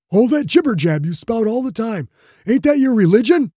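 mocking, excitable young brawler; Ju's voice. Ju's character voice.

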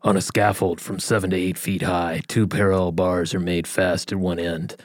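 measured, grave executioner reading; cold solemn executioner. Acted. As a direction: read it like a grim executioner. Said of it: "I'm gonna go for an executioner's voice here".

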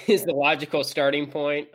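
holding in a small laugh while talking; fighting back laughter. Real, not acted. Host introducing the team topic, fighting back laughter. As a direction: try to keep the giggle out of it. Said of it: "fight back laughing a little bit".

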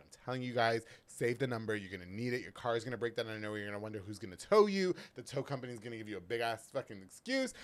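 upbeat sponsor plug, punchy; ad read. Acted. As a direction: sell it like a radio spot.

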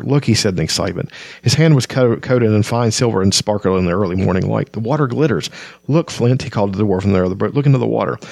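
steady read-aloud storytelling; story narration. A narrator's reading. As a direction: read it like an audiobook. Reads novel aloud.

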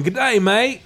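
mock Australian greeting. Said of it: "everybody was always going around going".

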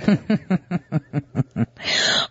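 low, drawn-out chuckle; real laugh at their expense; mocking laugh. Real, not acted. Mocking their use of nineteen.

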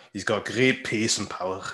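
lightly mimicked football pundit; a hint of a pundit impression; Alan Shearer. Podcast host teasing a TV pundit with his stock phrase, light mock impression. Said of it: "taking a mickey out of him".

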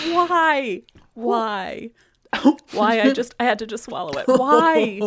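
high, pained cries from chili burn; wailing at the heat; mouth burning from spicy food. Real, not acted. Just ate a very hot chili.

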